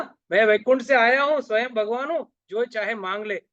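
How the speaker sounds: high, loud repeat of God's offer; emphatic divine proclamation. Acted. कथावाचक भगवान का वचन दोहराता है. (ऊँचे, ज़ोरदार सुर में भगवान की घोषणा)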